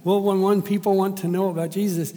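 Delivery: lightly voiced earnest lady; lady's proud explanation. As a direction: say it proudly and sincerely. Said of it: "And she goes".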